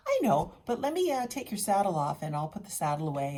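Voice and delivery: high, loud imitation of a helpful friend; high, loud mock friend voice; friend's chipper offer. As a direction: mimic her bright eager offer, a touch fast at the end. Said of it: "She goes".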